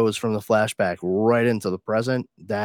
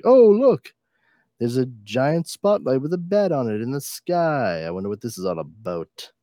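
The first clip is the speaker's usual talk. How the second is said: high, loud mock surprise on "Oh, look"; sarcastic mock wonder; 5 semitones higher, 4 dB louder than usual. Mocking Batman to friends, sarcastic wonder. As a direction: feign naive wonder, then drop flat.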